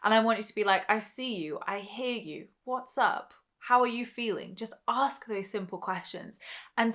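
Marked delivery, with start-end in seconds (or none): 0.9-4.5 with love. Shown as a demonstration. Showing listeners how to address their inner voice, lovingly. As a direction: gently acknowledge and ask, demonstrated. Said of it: "speak to that voice with love".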